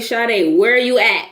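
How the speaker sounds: imitating a mother's stern demand; mad mother. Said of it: "I heard that tone. I knew she was mad as hell".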